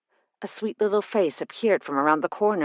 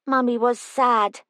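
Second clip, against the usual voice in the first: solemn; 6 semitones higher than usual. Acted. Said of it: "Lily said solemnly".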